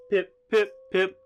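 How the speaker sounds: hoppip cries. Acted. GM repeats Hoppip cry.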